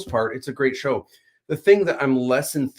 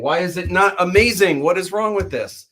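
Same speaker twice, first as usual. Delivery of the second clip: higher, insistent fan complaint; mock indignation; 6 semitones higher, 5 dB louder than usual. Fan reacting to a flaw in beloved Star Wars, mock indignant. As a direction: play up a fan's exasperated disbelief.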